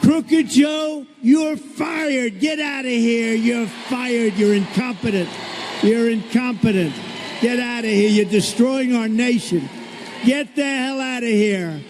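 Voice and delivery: a hammed-up firing rant; mock rant. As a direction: rail at him like a furious boss firing someone. Mock tirade at Joe.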